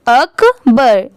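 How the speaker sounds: अकबर very slowly as 'uk... bur'; slow, separated अक-बर; syllable by syllable. Shown as a demonstration. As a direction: break अकबर in two for a beginner. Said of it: "आप ऐसे easily पढ़ सकते हैं".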